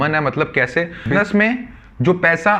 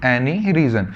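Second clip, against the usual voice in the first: due to any reason drawn out slowly, stress on due; teacher dictating the phrase; slow dictation; much slower than usual. Shown as a demonstration. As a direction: spell it out slowly for notebooks. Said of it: "मैं लिखवा रहा हूं".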